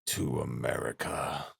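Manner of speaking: slow, low-key last words; Svidrigailov, unperturbed. A narrator's reading. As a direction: let it out slowly, resigned to it. Narrator voices Svidrigailov's last words.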